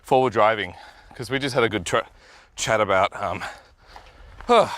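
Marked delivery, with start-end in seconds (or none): 1.2-4.7 winded on the trail, puffing; short of breath, sighing it out. Real, not acted. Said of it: "out of breath".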